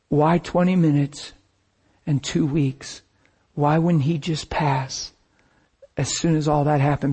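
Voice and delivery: leaning back in the chair, praying softly to the Father; quiet prayer. Real, not acted. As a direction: lean back and pray softly. Relaxed private prayer to God.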